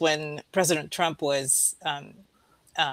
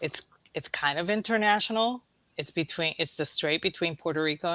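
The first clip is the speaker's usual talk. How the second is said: whispering. Real, not acted. Conspiratorial aside.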